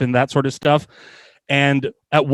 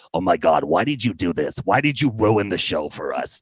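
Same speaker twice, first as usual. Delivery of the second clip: deep, low character voice; 6 semitones lower than usual. Retelling what a fellow actor said after the show: Harvey Fierstein voice. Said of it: "He sounds like Harvey Fierstein".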